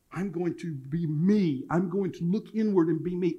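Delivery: measured, put-on self-assertion; mimicking self-focused youth. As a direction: imitate a millennial's solemn resolve. Mimics millennials looking inward.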